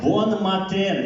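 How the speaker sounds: high, laughing "Bonne matin"; playful parody of a Russian student; mock Russian learner, laughing. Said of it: "ils me disent".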